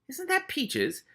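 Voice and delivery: surprised. Acted. A rat spotting Peaches.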